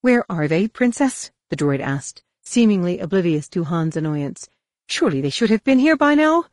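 a prim robot butler fretting; C-3PO worrying. Acted. C-3PO voiced by narrator.

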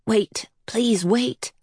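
slow, whispered pleading; silent inner plea. A narrator's reading. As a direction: whisper it like a thought held in the mind. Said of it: "kept saying in her mind".

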